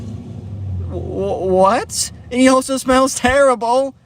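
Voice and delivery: breathless stammer rising to high outrage; dumbfounded disbelief. Retold or imitated. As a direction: sputter in mock disbelief and disgust. Ava dumbfounded by being asked out.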